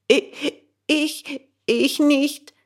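put-on high, stuttering, frightened boy; stammering. Bengele stammers his denial to the gendarme. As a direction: stumble over the first word in fear. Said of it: "stotterte Bengele".

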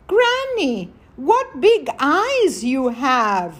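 high "Granny", slow wondering question; a hint of a curious child, drawn out; little girl. Girl questions the disguised wolf.

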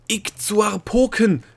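a sudden, drawn-out yell. A narrator's reading. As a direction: bellow the word slowly and high. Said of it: "Sie schrie, ja, brüllte es regelrecht".

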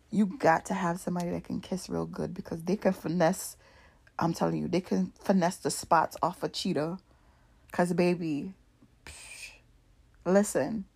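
soft, breathy whisper to the viewers; confiding whisper. Real, not acted. Telling viewers about a good kisser, whispered. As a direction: lean in and whisper it like a secret.

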